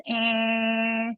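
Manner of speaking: a faint imitated moan, short and strained; imitated dying moan. Retelling the mother's last moan, a mild imitated groan. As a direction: echo the dying groan, lightly. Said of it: "all I hear is".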